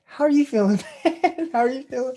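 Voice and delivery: high, eager question; mock eager. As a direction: ask it like an overexcited host. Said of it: "How, how, how am I feeling today?".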